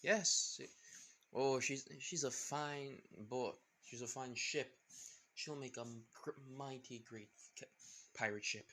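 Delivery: lightly voiced pirate captain; a hint of a grand pirate; Jack Sparrow voice. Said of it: "the man saying".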